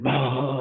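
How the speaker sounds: brief imitated sob; mock crying. Retelling being told to guide meditation, mock crying. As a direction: toss in a quick mock wail. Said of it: "start crying and, like, freaking out".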